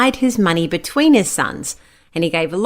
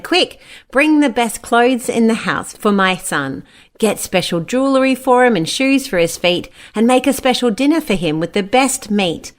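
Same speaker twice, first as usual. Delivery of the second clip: joyful father; 4 semitones higher than usual. Acted. Father joyfully orders a party.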